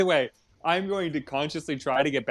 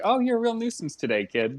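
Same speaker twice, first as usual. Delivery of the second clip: higher-pitched, mock-friendly pet talk, dropping at the end; friendly dog-talk voice; 6 semitones higher than usual. Shown as a demonstration. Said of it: "in a very friendly voice".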